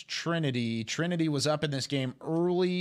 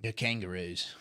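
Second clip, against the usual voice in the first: put-on Australian accent; 7 semitones lower, 6 dB quieter than usual. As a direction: say The Kangaroos like an Australian. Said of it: "that's nice with an Australian accent".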